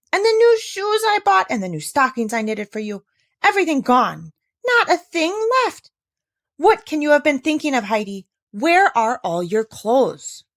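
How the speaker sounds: high, loud shrill scolding cry; shrieking aunt. A narrator's reading. Aunt shrieking at Heidi over her lost clothes. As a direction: shriek at the child in dismay. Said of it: "shrieked out".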